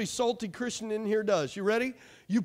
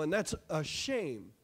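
slow, soft, sorrowful drop; hushed and slow, shaking the head; quiet lament; 8 semitones lower, 6 dB quieter, slower than usual. Real, not acted. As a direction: let it sink in sadly. Lamenting the country changing.

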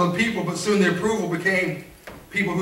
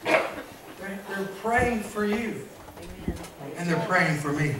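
near whisper; 4 semitones lower, 10 dB quieter, much slower than usual. Real, not acted. Sudden soft aside.

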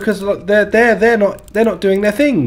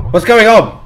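surprised; 3 semitones higher, 8 dB louder than usual. Real, not acted. Startled by game event.

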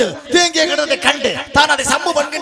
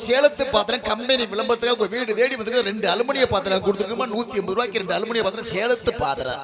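singsong street hawker. Acted. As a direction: cry your wares to the housewives. Aluminium vessel hawker calls.

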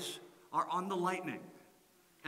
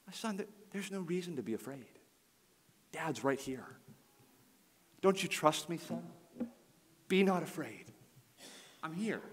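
gentle reassurance. Retold or imitated. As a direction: soothe a panicking little boy. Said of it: "the way I spoke to my son".

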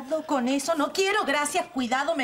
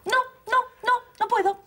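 firm refusal; 6 semitones higher than usual. Acted. Refusing boy, sending him away.

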